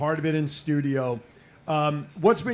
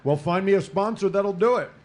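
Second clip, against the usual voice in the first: talking through a mouthful of cake; chewing while speaking; mouth full; 4 semitones higher than usual. Real, not acted. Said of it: "Don't talk with your mouth full".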